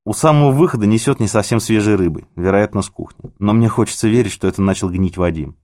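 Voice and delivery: plain reading voice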